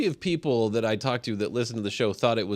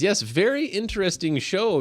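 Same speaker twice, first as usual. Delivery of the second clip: quoting Richard; 9 semitones higher than usual. Retold or imitated.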